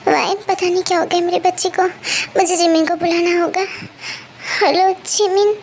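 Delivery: worried, flustered. Acted. Elder sister phones Jimin about the child, flustered. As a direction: fret over the child in rising worry. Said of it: "आप इतने घबराए हुए क्यों हो".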